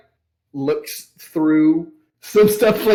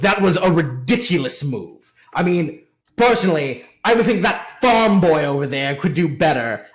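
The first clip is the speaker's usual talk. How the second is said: scornful merchant; 2 semitones higher than usual. Acted. Merchant scoffs at old knight's move.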